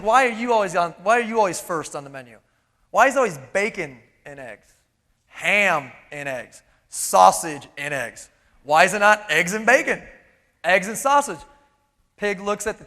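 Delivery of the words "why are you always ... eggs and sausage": a hint of a complaining chicken, fast and lower; lightly voiced chicken griping about the menu; whiny chicken. Chicken whining to the pig about breakfast, lightly voiced. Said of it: "Chicken's like".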